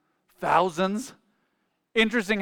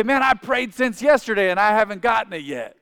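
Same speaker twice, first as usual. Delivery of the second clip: mock impatient complaint; 5 semitones higher, 5 dB louder than usual. Mimics impatient believer complaining about prayer.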